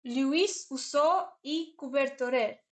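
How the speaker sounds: slow, careful Spanish attempt, rolling each syllable of "Luis usó y cobertorer"; trying hard to say "Luis usó y cobertorer" the Spanish way, slowly. Shown as a demonstration. Reading a Spanish name to chat, slow careful Spanish pronunciation. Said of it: "Am I saying it a little bit better now".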